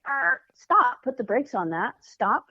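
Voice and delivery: self-talk stop command, said firmly. Shown as a demonstration. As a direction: slam the brakes on a bad thought. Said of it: "you just say".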